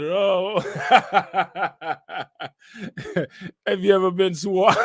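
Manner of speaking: mock preacher breaking into laughter; T D Jakes. Streamer retelling a reverend's question, hammed-up and laughing. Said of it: "He said".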